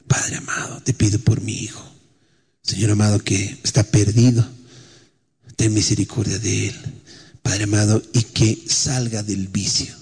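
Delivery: soft, low pleading prayer; a mother's hushed prayer for her son. Retold or imitated. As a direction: pray quietly for a lost son.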